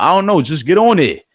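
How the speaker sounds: high, loud voicing of the fans; fans' voice. Fans begging him to go live, high and loud. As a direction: squeak it out like eager fans. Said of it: "they was like".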